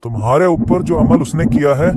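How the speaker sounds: agitated refusal. Acted. Healer tells client Iblis rules over them, agitated warning.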